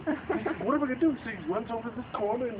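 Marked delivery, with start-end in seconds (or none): 0.7-1.1 mildly panicked, higher-pitched question; frightened. Acted. Man in the story frightened of the gorilla, mock-frightened. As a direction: play a touch of fright, pitch jumping up. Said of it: "he's frightened".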